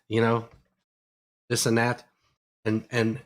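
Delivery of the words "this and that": "this and that" clipped to "'is 'n' at", th sounds dropped; Pittsburgh this 'n' at. Shown as a demonstration. Repeating his old Pittsburgh habit, saying 'is 'n' at. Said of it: "my big one was and that".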